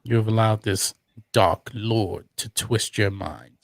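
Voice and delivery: distant tv audio bleeding in; movie sound from another room; tv through wall. Real, not acted. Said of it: "your T V is loud".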